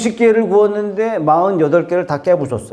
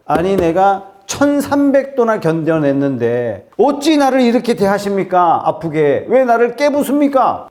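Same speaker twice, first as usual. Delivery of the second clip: acted clay pleading with its maker, climbing higher; aggrieved protest; 5 semitones higher than usual. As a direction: complain of unfair hurt, pitch building. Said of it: "진흙이 말을 할 수 있다고 해서". (억울하게 따지는 진흙 흉내)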